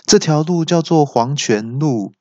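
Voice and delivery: mock GPS announcer; navigation voice. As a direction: read it like a polite car GPS. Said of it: "那导航就说".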